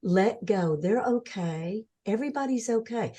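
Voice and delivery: quietly giving her permission to let go; gentle reassurance. Retold or imitated. Speaker softly tells the dying woman everyone is okay, gentle reassurance. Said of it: "I said".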